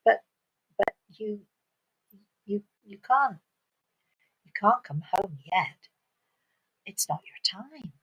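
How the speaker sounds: soft, hesitant gentle refusal; gentle lady. Acted. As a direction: break it to a child gently. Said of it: "the lady smiled gently at her".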